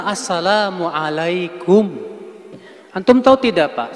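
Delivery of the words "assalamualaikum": slow, drawn-out Assalamualaikum, each syllable given weight; right greeting. Shown as a demonstration. Preacher shows the congregation the proper greeting, slow. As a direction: say Assalamualaikum slowly and fully. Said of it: "Yang benar".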